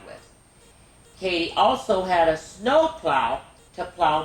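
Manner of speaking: gentle storybook narration; reading to children. Acted. Reads Katie story aloud.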